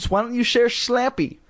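high-pitched silly mother voice; silly mom. A narrator's reading. Mother pushing the sisters to share, silly. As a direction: pitch it way up, cluelessly. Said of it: "Missus Powell continued".

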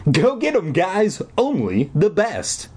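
high-pitched mock holler, no real volume; shouting encouragement. A narrator's reading. Counselor calls to boys across the room, mild shout. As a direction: cheer them on from afar. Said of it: "he shouted to them".

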